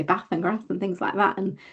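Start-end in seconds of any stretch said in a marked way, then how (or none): 0.0-0.3 "bath" with a short flat a, as in cat; Northern short a. Shown as a demonstration. Showing how Nottingham neighbours say "bath" with a short a. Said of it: "people who say". 0.4-0.6 "grass" with a short flat a, as in gas; Northern short a. Shown as a demonstration. Showing how locals say "grass" with a short a. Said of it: "people who say".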